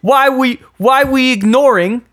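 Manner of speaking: high, loud goofy voice; silly dumb voice. Pretend. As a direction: squeak it out like a dim bro. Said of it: "I don't know why I'm doing this voice".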